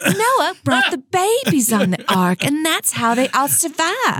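lightly imitated evangelical mom, pitch climbing as she explains; evangelical mother. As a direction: give a hint of a devout mother earnestly explaining. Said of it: "my very evangelical mother said".

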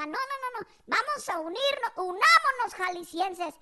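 hammed-up call to arms; mock rallying mother. Mother rallying fellow Jaliscans, mock indignation. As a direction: raise it, then drag out the final rallying word. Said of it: "dijo luego, luego mi jefa".

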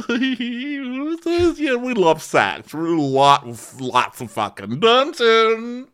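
high, loud, drawn-out whooping; hammed-up wild enthusiasm, stretching the end; manic imitation. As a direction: get carried away, loud and high. Imitating Noella carried away.

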